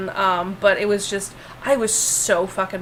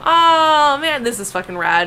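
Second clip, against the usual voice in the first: excited; 4 semitones higher, 4 dB louder than usual. Pretend. Playful excited reaction.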